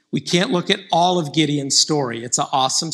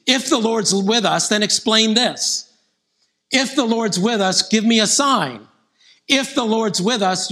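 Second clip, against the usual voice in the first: doubting Gideon's ifs; 6 semitones higher than usual. Retold or imitated. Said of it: "Like, repeatedly".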